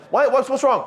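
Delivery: lightly voiced curious coworker; a touch of a puzzled colleague; questioning coworker. Coworker asking why he leaves.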